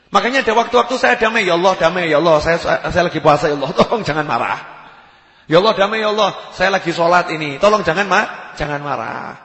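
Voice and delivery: loud, urgent begging; acted pleading. Robber begs God not to be angry, loud urgent pleading. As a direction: beg at full voice, easing off at the last words.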